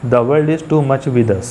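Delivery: slow, deliberate reading of "The world is too much with us"; slow verse reading. Shown as a demonstration. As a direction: read the line slowly, weighing each word. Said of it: "तो जैसे कि आपने देखा". ("The world is too much with us" को धीरे-धीरे पढ़ें)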